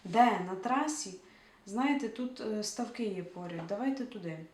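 loud, quick alarm at first; a nervous character countering the plan; urgent objection. Acted. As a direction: cut in, then propose the ponds. Grisha objects, suggests ponds.

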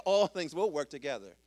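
forceful preaching declaration; loud proclamation. Real, not acted. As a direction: belt the verse out with conviction. Repeats verse louder after whoop.

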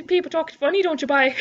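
joking imitation of a Newfoundland accent; Newfie accent. Grandchild of a Newfie mimicking their talk, mock Newfie accent. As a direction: put on a Newfie lilt. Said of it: "they say bye at the end".

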